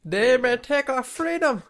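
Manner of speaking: high, slow quavering granny; old lady voice. Retold or imitated. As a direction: recite it like a frail old granny. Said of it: "like a Grammy".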